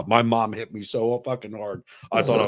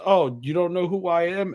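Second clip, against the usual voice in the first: mock grande dame expecting recognition; high, affected question from a retold celebrity; self-important hostess; 9 semitones higher than usual. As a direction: imitate her in a high put-on voice. Famous hostess asks, retold.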